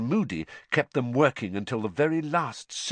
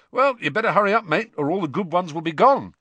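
teasing; 9 semitones higher, 6 dB louder than usual. A narrator's reading. Fred teases loudly.

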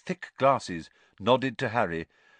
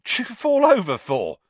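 sniggering; 13 semitones higher, 10 dB louder than usual. A narrator's reading. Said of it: "sniggered Stan".

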